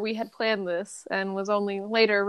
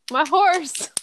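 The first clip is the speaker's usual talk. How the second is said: Southern belle voice; 9 semitones higher, 6 dB louder, slower than usual. Acted. Reprising the lost horse cry.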